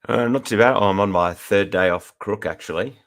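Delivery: slight husk from a cold; husky voice. Real, not acted. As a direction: speak through a sick, husky throat. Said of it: "I've got a little husk in my voice".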